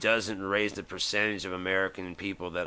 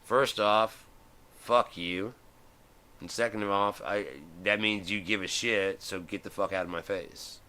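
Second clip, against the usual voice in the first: mock angry woman. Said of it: "And she's like".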